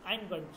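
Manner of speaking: আইন, গইন without Arabic throat articulation; relaxed আইন, গইন, no makhraj effort; natural, non-Arabic pronunciation. Shown as a demonstration. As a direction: say আইন, গইন simply, as everyday vowels and g. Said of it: "আরবির মতন আপনাকে এত মাখরাজ".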